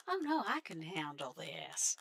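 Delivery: put-on slow, drawled American accent. Canadian player voicing overconfident newcomer, put-on American accent. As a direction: put on an American accent, taking your time. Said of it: "By the way, that's not my accent".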